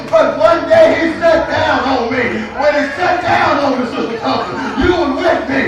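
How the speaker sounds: preaching at full force. Acted. Pastor whoops the message to the congregation, preaching hard. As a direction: build the church up with rising fervor.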